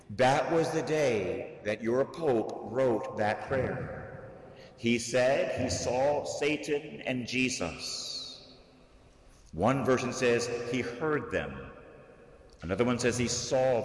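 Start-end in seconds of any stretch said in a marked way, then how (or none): none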